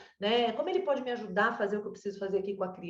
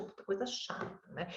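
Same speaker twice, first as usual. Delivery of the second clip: soft unvoiced grumble under the breath; a child muttering to himself; whispered grumble; 9 dB quieter than usual. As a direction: whisper it like a child's sulky thought. Child's thought when sister arrives.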